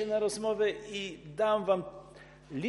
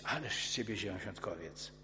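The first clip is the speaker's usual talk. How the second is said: mock retort; 9 semitones lower, 10 dB quieter, faster than usual.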